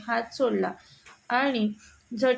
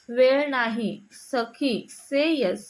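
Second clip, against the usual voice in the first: stubborn anger; much slower than usual. A narrator's reading. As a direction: dig in and refuse him outright. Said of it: "जिद्दीने ठामपणे रागात बोलली".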